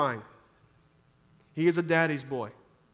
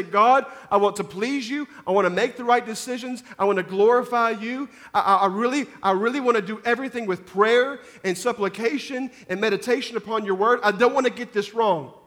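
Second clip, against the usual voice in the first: earnest, a touch faster prayer to God; pleading prayer; 4 semitones higher, 5 dB louder than usual. Pretend. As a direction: pray it as the humble believer would. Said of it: "and say".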